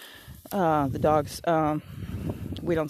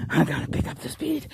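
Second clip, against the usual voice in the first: determined self-talk; 5 semitones lower than usual. Retold or imitated. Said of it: "And I was just like".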